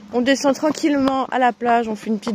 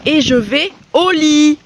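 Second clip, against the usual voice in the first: drawn-out sigh; 5 semitones higher, 6 dB louder, slower than usual. Real, not acted. Tired, sick vlogger.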